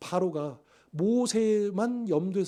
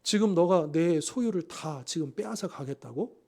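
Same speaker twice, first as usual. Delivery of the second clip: slow, incredulous mocking question; slow scornful retort; scolding sarcasm; 3 semitones lower, 4 dB quieter than usual. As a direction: drag it out in disbelief. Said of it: "질책하고 빈정거리고 있는 겁니다".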